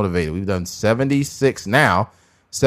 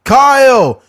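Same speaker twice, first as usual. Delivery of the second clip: high, loud barked name; hammed-up overseer shout; mock master yell; 12 semitones higher, 7 dB louder than usual. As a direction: snap the name out. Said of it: "here's one".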